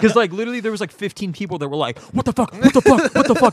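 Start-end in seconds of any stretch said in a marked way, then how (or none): 2.1-3.5 high, rising panicked repeats; mock-alarmed bystanders, pitched up; high alarmed what the fuck; shocked crowd.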